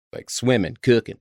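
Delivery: "swimming" and "cooking" ending in -in'; dropped G endings. Shown as a demonstration. Host showing G-dropping in "swimming, cooking", endings as plain n. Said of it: "Take the dropping of the G".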